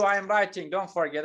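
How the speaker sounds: ordinary talk, nothing marked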